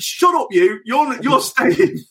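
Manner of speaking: high, slow mock boss brush-off; hammed-up high dismissive boss; mock manager. Manager refuses player's exit, high slow mock voice. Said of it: "He's like".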